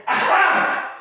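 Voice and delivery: high, breathless gotcha cry; gleeful gotcha. Acted. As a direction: pounce on him with glee. Solomon catches Mister Warner out.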